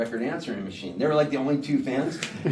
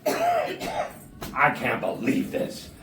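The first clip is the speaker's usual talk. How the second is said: mock stunned manager; much slower than usual. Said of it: "He goes".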